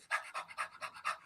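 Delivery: breathy dog pant. Shown as a demonstration. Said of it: "it goes down and it goes".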